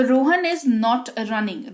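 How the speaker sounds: slow, careful English; slow model sentence. Shown as a demonstration. Teacher modelling the English sentence slowly. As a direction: read it slowly for students. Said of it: "जैसे रोहन नहीं दौड़ रहा है".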